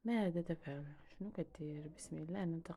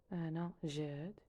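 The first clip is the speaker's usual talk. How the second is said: أنا جاد said slowly, rising on أنا; slow repeat; slower than usual. Shown as a demonstration. Teacher slowly repeating the introduction for learners. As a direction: draw out أنا جاد for the class. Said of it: "teacher repeats phrase slowly".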